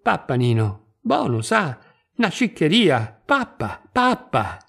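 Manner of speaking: lightly voiced old woman coaxing her Nino. Old woman coaxing child to eat.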